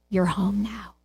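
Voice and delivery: a quiet homecoming whisper of comfort; quiet tender father. Shown as a demonstration. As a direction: hush it like a father calming his boy. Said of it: "I love this story".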